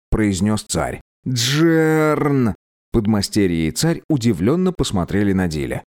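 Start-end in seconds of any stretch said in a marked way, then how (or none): 1.3-2.5 a frightened yell of Джерн; alarmed shout. Acted. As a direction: call him out sharply in alarm.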